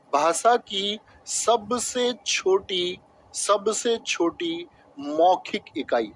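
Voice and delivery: slow, spaced-out repeat of the question; dictating. Shown as a demonstration. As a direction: spell out the question slowly, phrase by phrase. Teacher repeats question slowly while writing.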